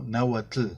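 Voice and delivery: "Náhuatl" with the final tl hit very firmly; strong TL in náhuatl. Shown as a demonstration. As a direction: pronounce the tl at the end of "Náhuatl" hard and crisp. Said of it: "T L muy fuerte".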